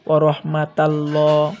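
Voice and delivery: dark double l with an o-like vowel in রহমাতাল্লাহ; heavy Allah sound. Shown as a demonstration. Teacher showing the rule after jabar, heavy "llaw" in রহমাতাল্লাহ. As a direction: end রহমাতাল্লাহ on a rounded "llaw". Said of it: "জবর থাকে তাহলে হয়তো".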